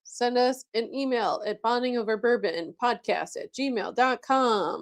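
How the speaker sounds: smooth announcer read, movie phone voice. Acted. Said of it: "doing your movie phone voice".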